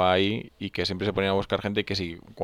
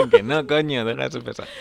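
loud retort; 4 semitones higher, 6 dB louder than usual. Acted. Mock drunk retort, loud.

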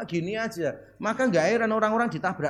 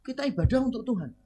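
flat voice; 4 dB quieter than usual. Retold or imitated. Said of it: "Dia jawab".

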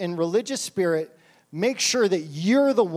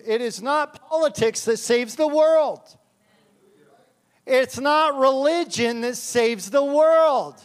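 fired-up proclamation; 5 semitones higher, 4 dB louder, slower than usual. Real, not acted. Preacher builds to climax.

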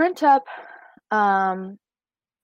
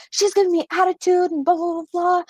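whiny complaint; 10 semitones higher than usual. Retold or imitated. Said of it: "And she's like".

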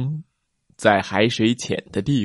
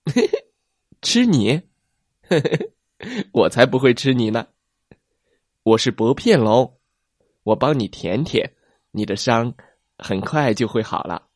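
giggle, then soothe him kindly; cheerful little plesiosaur. Acted. Little plesiosaur reassuring hurt T-rex, laughing and cheerful.

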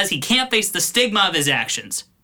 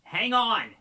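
faint, higher yell from another floor; calling back; 5 semitones higher, 5 dB quieter than usual. Acted. Ryan told to get down here, calling back from afar. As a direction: holler down from upstairs.

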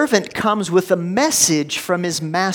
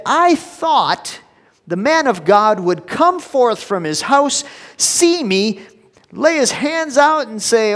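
loud, higher, outraged complaint; furious rant; 6 semitones higher, 8 dB louder than usual. Acted. Naaman rages that the prophet never came out, loud and furious. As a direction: rant at the snub, voice climbing high and loud. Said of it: "He was mad".

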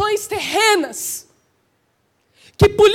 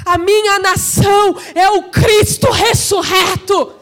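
impassioned pulpit proclamation; full-force preaching; 4 dB louder than usual. Real, not acted. Preacher voicing Pedrão at Pentecost, fervent and forceful. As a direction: declaim it as a shouted confession of faith.

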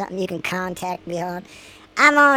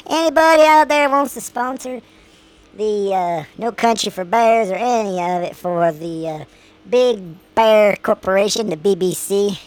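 radio announcer. Acted. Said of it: "post this as a show and say".

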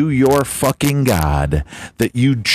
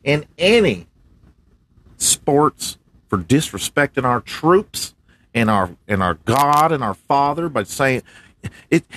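higher pitched MAGA guy; MAGA man character; 3 semitones higher than usual. Acted. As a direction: lay down the law for the troops, pitched up. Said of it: "What'd you guys say, MAGA man".

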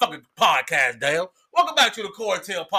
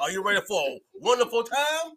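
game show host; 5 dB quieter than usual. Acted. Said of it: "You sound like a game show host".

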